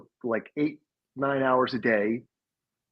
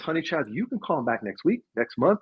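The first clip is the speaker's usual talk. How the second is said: sassy Southern woman, pitched up; hammed-up Southern sass, building higher; thick Southern accent; 4 semitones higher than usual. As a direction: imitate a Southern woman scolding through amusement. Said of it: "she had a very thick Southern accent".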